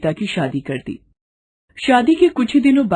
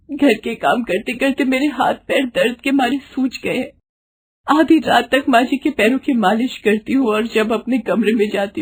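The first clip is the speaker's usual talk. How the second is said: put-on higher voice of a worn-out young wife; suffering bride; 4 semitones higher than usual. Bride telling her friend about the abuse, higher voiced and weary. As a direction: confide your pain to a friend. Geeta pours out her misery.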